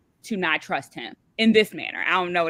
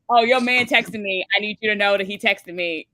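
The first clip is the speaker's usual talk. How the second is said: mock tattling; 2 semitones higher, 3 dB louder than usual. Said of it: "my automatic first thought, was to be like".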